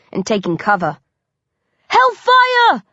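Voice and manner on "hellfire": very high, loud exclamation; astonished shout. A narrator's reading. Hunter amazed at the prey's escape, shouting high. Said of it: "Essex shouts".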